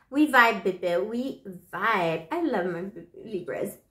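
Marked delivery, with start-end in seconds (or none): 0.1-1.0 loud, bright exclamation; excited. Real, not acted. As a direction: shout it happily. Playful bond with Libras.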